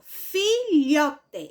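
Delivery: "filhote" very slowly, LHO held and pushed; stressed middle syllable. Shown as a demonstration. Teacher repeating for pupils to listen, "filhote" stressed on LHO. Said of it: "qual foi o pedacinho mais forte que eu pronunciei".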